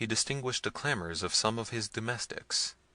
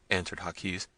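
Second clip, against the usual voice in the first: ordinary delivery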